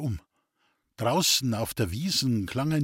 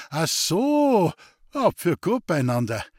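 bursting out; 5 semitones higher, 4 dB louder than usual. A narrator's reading. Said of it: "Dann brach es aus ihm heraus".

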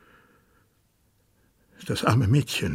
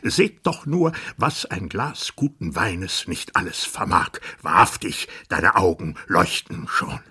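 mocking tyrant king. King mocks the drunk dwarf.

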